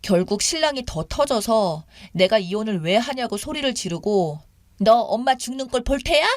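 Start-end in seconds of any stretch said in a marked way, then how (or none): 4.8-6.2 higher, lightly acted threatening mother; a touch of emotional blackmail; mock threat. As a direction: imitate a mother's dramatic ultimatum. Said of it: "비루한 협박을 잘하시니".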